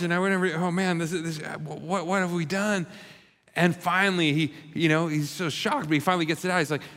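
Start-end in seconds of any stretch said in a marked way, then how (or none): 0.6-2.9 panicked thoughts. Retold or imitated. Jim panics at the bathroom wall.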